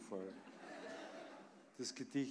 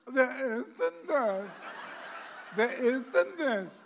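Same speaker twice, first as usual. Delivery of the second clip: higher squawking parrot; parrot screeching back; 12 semitones higher, 12 dB louder, slower than usual. Acted. Parrot answering the shouting man, squawky. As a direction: squawk it back through the door. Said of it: "Schreit's wieder drin".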